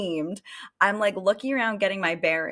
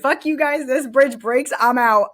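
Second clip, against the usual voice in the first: retold yell; 5 semitones higher, 6 dB louder than usual. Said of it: "I said".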